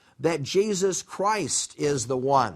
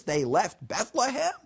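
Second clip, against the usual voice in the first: put-on Yiddish accent; 5 semitones higher than usual. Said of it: "if we're Old Testament Jewish people and we're reading this".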